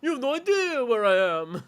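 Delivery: high, loud unhinged villain voice; mock unhinged shout. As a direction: play him as a man coming apart. Mocking unhinged character line.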